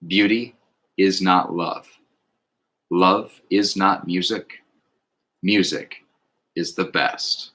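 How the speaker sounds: slow, measured recital with pauses; solemn oath. Acted. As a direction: recite it like a pledge, each phrase set apart. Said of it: "the oath itself".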